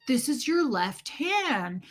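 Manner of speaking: slow, stretched words to a newborn; mock-teaching an infant, drawn out; imitated baby talk. Retold man teaching newborn.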